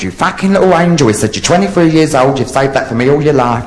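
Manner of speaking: high, gushing delight; acted overjoyed new husband; gushing groom.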